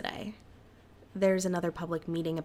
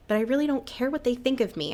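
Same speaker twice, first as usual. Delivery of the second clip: louder, higher, firmly defiant; 6 semitones higher, 5 dB louder than usual. Acted. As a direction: push back hard, you mean it. Defiant reply to friends.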